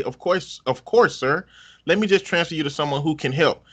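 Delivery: sarcastic sugary customer-service voice; overly sweet sarcastic phone manner; sarcastic cutesy phone voice. Retold or imitated. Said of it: "in my most sarcastic, overcompensating, cutesy phone voice ever".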